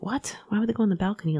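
a sudden what, then confused disbelief; baffled surprise. Retold or imitated. Mom finds family in balcony, surprised and baffled. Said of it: "I was like".

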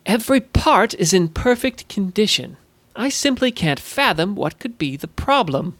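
puzzled goblin. Acted. Goblin repairer finding no fault in the watch, puzzled. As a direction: play a good-natured goblin, stumped.

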